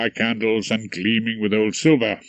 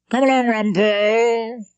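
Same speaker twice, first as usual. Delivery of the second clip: higher, louder summons across the room; calling out; 11 semitones higher, 4 dB louder than usual. A narrator's reading. Featherstone calls Rumpole to dinner, calling out higher and louder. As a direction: call him over to the table. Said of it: "Featherstone called to me".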